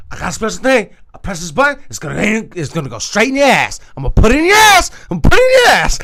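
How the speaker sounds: building to a high, loud yelled threat; mock drunk threat. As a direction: ham up a drunk guy's crazy threat. Drunk OG voiced threatening her.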